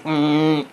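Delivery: short grunt of irritation; edgy frustrated "mm". Shown as a demonstration. Parent frustrated over child's homework, edgy grunt. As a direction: demonstrate a frustrated hum with an edge. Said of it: "you get that little edge in your voice".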